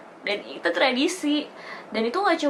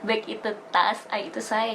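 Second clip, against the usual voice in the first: explaining word by word; slower than usual. Shown as a demonstration. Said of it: "Jadi kayak".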